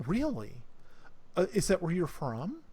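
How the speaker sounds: lightly voiced eager curiosity; mildly excited. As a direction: ask with a touch of excitement. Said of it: "You see the excitement in, in, uh, Zathia's eyes".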